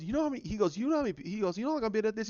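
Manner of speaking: mock indignant. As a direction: sputter it out, offended.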